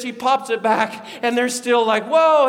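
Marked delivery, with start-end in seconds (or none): 2.0-2.5 loud, high astonished whoa; mock freak-out. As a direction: exclaim as if stunned by a marvel. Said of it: "they're just freaking out".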